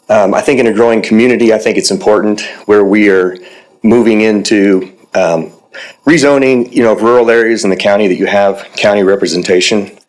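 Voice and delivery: breathless, pausing for air mid-sentence; short of breath. Real, not acted. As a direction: speak while short of breath. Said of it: "Sorry, I'm a little short of breath".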